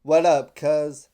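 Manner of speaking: loud, slow slangy greeting in a put-on voice; mock street slang. Mocking how young people talk, loud put-on slangy greeting. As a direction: ham up a casual bro greeting. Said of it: "they be like".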